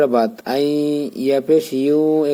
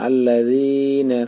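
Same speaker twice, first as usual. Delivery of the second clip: slow, drawn-out recited word; Quran recitation; much slower than usual. Shown as a demonstration. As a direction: chant it slowly with the long vowel. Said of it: "এখানে এক আলিফ টান". (ধীরে টেনে তিলাওয়াত)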